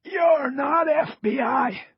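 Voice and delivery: slow, strained raspy challenge; gallant rasp. A narrator's reading. Cross challenges men claiming to be agents, gallant rasp. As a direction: stand up to them in a rasp. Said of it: "he said gallantly".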